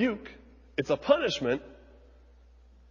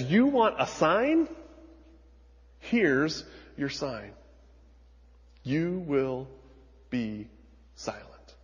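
stern angel's verdict; slower than usual. Acted. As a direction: pronounce the sentence slowly, letting it sink. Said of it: "Gabriel says".

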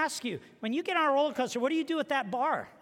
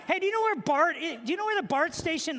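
hasty polite question; 5 semitones higher, faster than usual. Retold or imitated. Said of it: "I just went".

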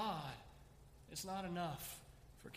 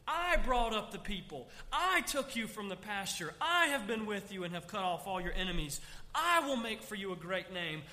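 firm, louder proclaiming as God; God's proclamation; 5 dB louder than usual. Acted. Preacher voicing God to the congregation, firm and proclaiming. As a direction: declare each promise like God himself.

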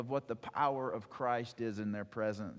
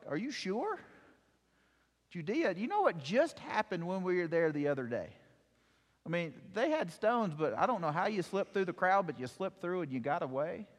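worried disciples; 4 semitones higher than usual. Acted. Disciples questioning Jesus going back.

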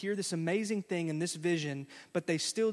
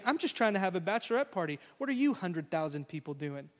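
annoyed bachelorette; faster than usual. Retold or imitated.

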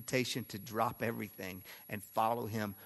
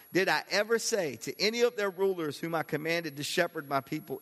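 raised, incredulous rhetorical questioning; sarcastic God; 6 semitones higher, 4 dB louder than usual. Acted. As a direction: put a touch of sarcasm in God's challenge. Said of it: "You can almost hear the sarcasm in God's voice".

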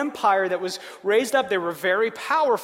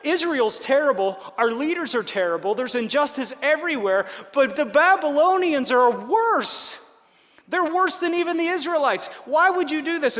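mock indignant complaint; 5 semitones higher, 3 dB louder than usual. Habakkuk protests to God.

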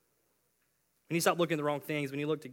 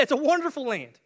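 high, loud raving; amazed spy; 10 semitones higher, 9 dB louder than usual. Acted. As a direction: rave about it like a thrilled explorer. Acting out amazed spies seeing the land.

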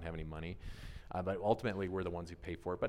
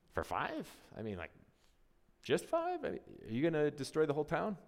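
incredulous haggling; 7 semitones higher than usual. Retold or imitated. Abraham haggling with God.

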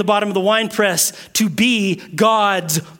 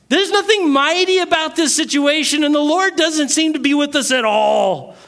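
higher, whiny voice of a doubter; complaining Gideon; 6 semitones higher than usual. Acted. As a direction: plead your grievance, a bit put-upon.

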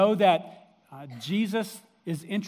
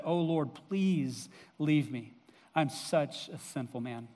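humbled plea; 4 semitones lower, 5 dB quieter, slower than usual. Retold or imitated. Peter on his knees before Jesus.

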